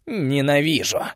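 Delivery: loud snarled hate; roaring hatred. Acted. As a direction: roar it out. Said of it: "проревела ведьма".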